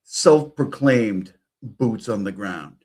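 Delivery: loud, slow sarcastic stress on boots on the ground; mock the phrase, slowly and pointed; mocking emphasis. Streamer mocking the self-proclaimed boots on the ground, sarcastic.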